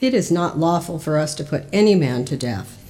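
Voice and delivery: ordinary delivery, nothing marked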